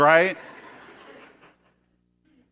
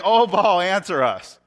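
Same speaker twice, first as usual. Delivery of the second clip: calling out to Baal; 5 dB louder, slower than usual. Retold or imitated.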